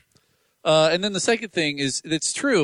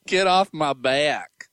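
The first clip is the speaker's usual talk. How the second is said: slow, drawn-out echo of the caller; imitating caller; 2 semitones lower, much slower than usual. Host echoes caller's sign-off to co-host, slow imitation. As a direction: mimic the caller's unhurried sign-off.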